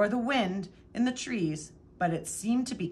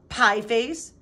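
insult yelled; 3 semitones higher, 7 dB louder than usual. A narrator's reading. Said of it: "she yelled".

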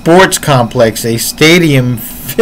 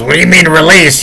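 incredulous retort; 4 semitones higher, faster than usual. Retold or imitated.

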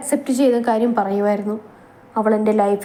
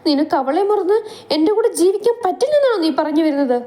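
angry demand; 8 semitones higher than usual. Acted. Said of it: "അവൾ ദേഷ്യം കടന്നുകൂടി".

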